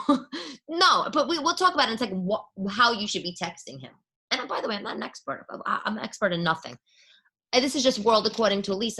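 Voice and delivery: ordinary talk, nothing marked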